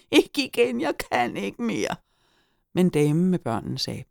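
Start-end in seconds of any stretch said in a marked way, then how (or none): 0.1-1.9 high-pitched, desperate wail; screamed plea. A narrator's reading. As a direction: beg for it to stop, at breaking point. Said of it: "skreg Hyggen".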